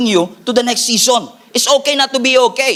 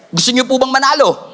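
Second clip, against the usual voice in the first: rallying shout; 2 semitones higher than usual. Real, not acted. Calling out to congregation.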